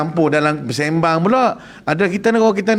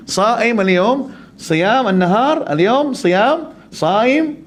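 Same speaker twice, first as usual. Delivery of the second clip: Arab man slowly repeating; 5 semitones higher, much slower than usual. Retold or imitated.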